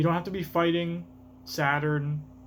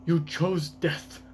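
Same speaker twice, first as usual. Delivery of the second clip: lightly put-on accent for a scientist; character voice with a hint of accent; Vegapunk in an accent; 2 semitones higher, much slower than usual. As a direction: read it in a slight, unsteady accent. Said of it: "I gave Vegapunk that accent".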